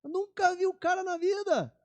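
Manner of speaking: high, put-upon scoffing fisherman; indignant scoff. Retold or imitated. Fisherman scoffing at the stranger on the shore, indignant. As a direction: act offended by the stranger's advice.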